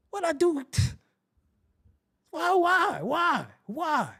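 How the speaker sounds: high, pained why repeated; mock anguish. Scolding himself for being polite, mock anguish. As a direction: wail it at yourself.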